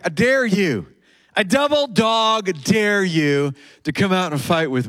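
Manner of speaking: a touch of antagonistic taunting. Retold or imitated. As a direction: throw down a playful challenge. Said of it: "he is being antagonistic".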